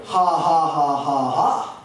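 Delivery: deliberate, spelled-out fake laugh; mock laugh. Comedian answering the kid's knock-knock joke, mock laugh. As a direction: force out separate ha-ha-ha syllables.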